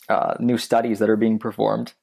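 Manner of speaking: talking through hiccups; words broken by a hiccup. Real, not acted. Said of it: "Pardon me, I'm hiccuping".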